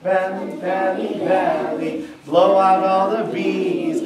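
sly sneaky chant. Acted. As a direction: sing it like a sneaky trick. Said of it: "sang his magic belly song sneakily".

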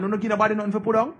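fast, mocking question thrown back at a friend; quick disbelieving jab; incredulous retort. Scolding an ungrateful friend over fifty dollars, fast incredulous mockery.

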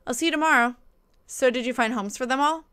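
lightly acted two-way message exchange; animated read-aloud of a conversation; reading texts aloud. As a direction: read the messages out like a lively chat between friends.

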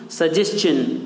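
सजेशन ending in चन, सजेस्चन; correct suggestion. Shown as a demonstration. Teacher modeling the right way: सजेशन as सजेस्चन. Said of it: "आज के बाद आप लोग क्या कहेंगे".

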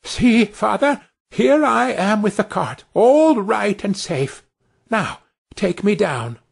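put-on high, proud little boy's voice, slowing down; a tiny boy showing off to his father; Tom crying out proudly. A narrator's reading. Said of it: "cried out".

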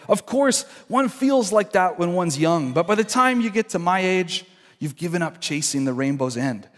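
a hint of a jaded adult talking down to youth; disillusioned sensible person. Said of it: "This is how their, um, self-talk sounds".

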